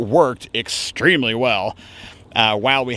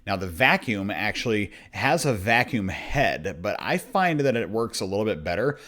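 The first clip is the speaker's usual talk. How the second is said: softer, hushed documentary narrator; deep narrator voice; 7 dB quieter than usual. Acted. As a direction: narrate it like a nature film. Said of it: "my deep narrator voice".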